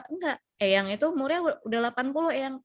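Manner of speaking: acted pushy correction; insistent correcting. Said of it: "mendebatnya dan memaksakan".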